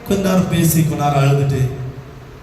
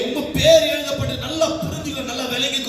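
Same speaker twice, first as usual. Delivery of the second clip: preaching shout; 5 semitones higher than usual. Real, not acted. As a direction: call it out to the hall. Preacher urging congregation. (உரத்த பிரசங்கக் குரல்)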